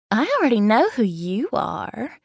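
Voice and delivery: a hint of a Southern belle; Southern accent. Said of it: "in her heavily Southern accent".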